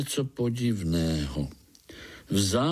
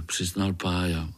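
ordinary delivery

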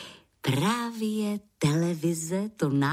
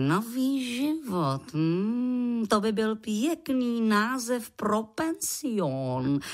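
musing professor; 4 semitones higher, much slower than usual. Acted. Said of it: "pomyslel si profesor Kadeřábek".

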